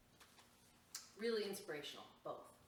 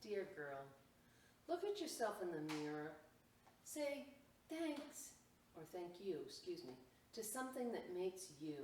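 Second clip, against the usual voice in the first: measured picture-book reading with lifted phrases; reading to children. Acted. Storyteller reads Dear Girl to children, lilting and measured. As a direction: lift each thank-you and leave space after it.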